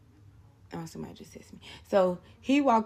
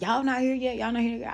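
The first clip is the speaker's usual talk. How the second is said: impatient caller; 6 semitones higher, 4 dB louder than usual. Retold or imitated. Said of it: "Vanna steady calling them like".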